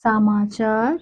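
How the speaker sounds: very slow, long pauses between words; word by word dictation. Shown as a demonstration. Teacher dictating the sentence to children. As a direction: dictate each word for writing. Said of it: "पहला जो शब्द है".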